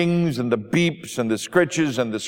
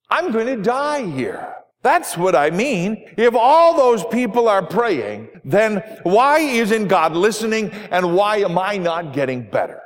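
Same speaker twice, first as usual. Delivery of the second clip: pitched way up, exasperated; exasperated outburst; 5 semitones higher than usual. Acted. Ruth, in hospital, snapping at the pastor, exasperated and high. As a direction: throw the question back at him, fed up. Dying woman protests unanswered prayers.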